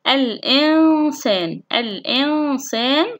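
slow الإنسان with long nasal noon; ikhfa demonstration. Shown as a demonstration. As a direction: hum the noon before the س of الإنسان. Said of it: "الذي يليه حرف السين". (إخفاء النون بغنّة ممدودة في الإنسان)

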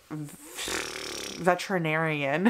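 hesitant, broken-up veterinarian; stumbled word. Real, not acted. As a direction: trip over saying veterinarian slowly. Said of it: "why that took me so long to say".

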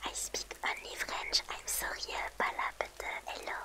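slow English. Acted. Switching to English mid joke.

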